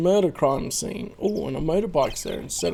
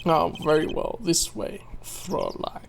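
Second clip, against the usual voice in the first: put-on German accent; 5 dB quieter than usual. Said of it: "German accent".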